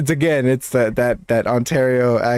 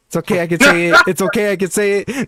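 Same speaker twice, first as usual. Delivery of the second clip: half-landed mock Hispanic accent; attempted Hispanic accent; 4 semitones higher, faster than usual. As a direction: try a Hispanic accent over an Ontario one. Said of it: "trying to do a Mexican accent or Hispanic accent".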